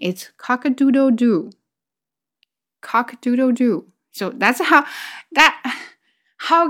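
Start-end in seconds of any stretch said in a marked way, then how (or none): 0.4-3.9 higher spoken cock-a-doodle-doo; imitated rooster crow. Shown as a demonstration. Teacher showing the funny English rooster, imitated crow. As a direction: crow it as a word, pitched up. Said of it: "roosters is funny".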